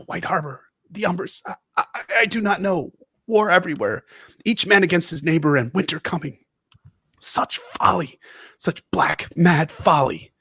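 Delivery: a hint of a desperate dying scholar; dying old maester. Dying maester's frantic speech, read aloud.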